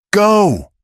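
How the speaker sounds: sharp high shouted go; yell. A narrator's reading. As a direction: push her out with a loud cry. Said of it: "Luke yelled".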